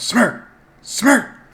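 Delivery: very high-pitched yell calling across a distance. Speaker voicing their character floating back to the castle, yelling a name. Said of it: "I'm yelling".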